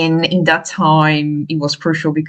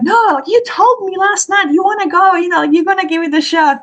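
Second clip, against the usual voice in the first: much higher, teasing friend voice; friend reminding; 12 semitones higher than usual. Retold or imitated. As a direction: remind her of last night's promise, pitched way up. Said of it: "And she was like".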